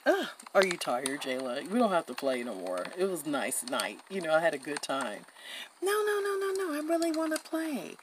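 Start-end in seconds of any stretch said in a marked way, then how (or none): 5.8-8.0 eager protest. Real, not acted. Protesting she isn't tired.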